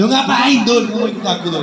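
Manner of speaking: startled kiai's question; taken aback. Acted. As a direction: question a pupil in disbelief. Kiai startled by pupil's request.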